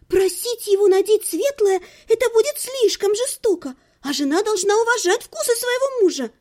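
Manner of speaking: put-on high, breathless girlish chatter; gushing young girl. A narrator's reading. Lidia excitedly plans a double wedding with Algerda, high.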